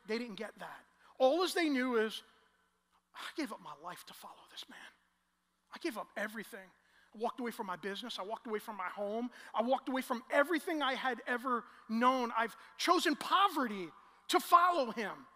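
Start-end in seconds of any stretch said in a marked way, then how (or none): 3.1-4.8 disciple's whisper. Acted. Pastor voicing grieving disciple. 5.7-15.3 disciple's rising lament. Acted. Pastor voicing disillusioned disciple.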